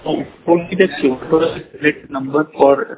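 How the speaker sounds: muffled voice, hand over mouth. Real, not acted. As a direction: speak through a covered mouth. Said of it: "you're sounding muffled".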